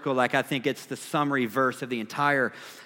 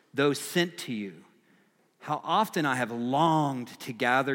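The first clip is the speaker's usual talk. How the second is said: compassionate; 3 dB quieter than usual. Acted. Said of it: "His compassion is really clear".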